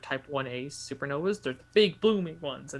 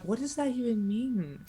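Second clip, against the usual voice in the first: high, laughing disbelief; baffled and half laughing; incredulous; 8 semitones higher, 5 dB louder than usual. Retold or imitated. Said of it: "I'm like".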